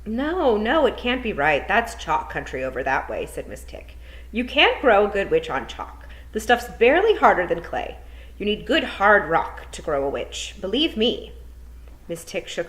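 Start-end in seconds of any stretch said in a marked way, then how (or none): 0.0-3.2 a hint of a brisk, worried witch, rising loud at the end; teacher lightly voicing a fretful witch; lightly voiced old witch. Miss Tick speaks in story. 4.3-11.3 a hint of a brisk, worried witch, rising loud at the end; teacher lightly voicing a fretful witch; lightly voiced old witch. Miss Tick speaks in story.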